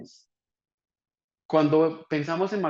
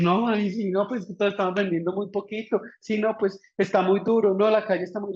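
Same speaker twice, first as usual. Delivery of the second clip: higher, whiny mock complaint; mocking whiner; 5 semitones higher than usual. Lecturer mocking sellers who whine about the economy, higher whiny voice. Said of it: "Salir a llorar y decir".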